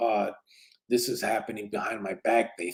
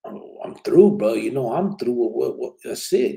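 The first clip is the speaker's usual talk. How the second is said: retold exasperation; 4 dB louder than usual. Speaker telling his brother he is through, exasperated. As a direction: re-enact throwing in the towel, exasperated.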